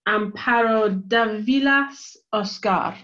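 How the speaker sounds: slow, careful Spanish accent; names said in a Spanish accent. Real, not acted. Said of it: "terrible Spanish accent".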